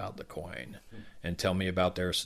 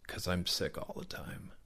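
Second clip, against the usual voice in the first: put-on quiet child; 5 dB quieter than usual. Child quietly admits being sick.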